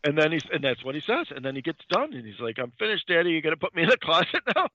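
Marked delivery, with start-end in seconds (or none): 2.6-4.7 put-on higher, quick kid voice; imitated eager boy. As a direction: play an over-keen little boy asking Daddy. Imitates gleeful boy eager for closet.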